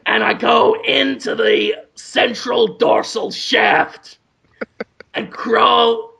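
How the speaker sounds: slow, drawn-out movie-star impression; lightly put-on voice, stretching out each step of the method; Willem Dafoe. Actor explains his cancer cure on a talk show, Willem Dafoe impression. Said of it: "Willem Dafoe impersonation".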